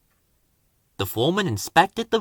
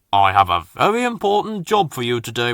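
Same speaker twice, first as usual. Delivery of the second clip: stately boss; 3 semitones lower, faster than usual. Acted. Fat Controller gives a job.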